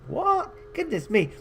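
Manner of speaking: amused shock at the recipe; surprised. Real, not acted. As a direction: gasp it out in amused disbelief. Reacts to gruesome instruction.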